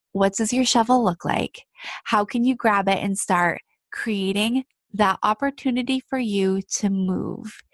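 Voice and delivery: ordinary talk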